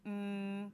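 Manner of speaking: Mm hummed alone as the onset; isolated first sound. Shown as a demonstration. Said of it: "thumb up for the first sound".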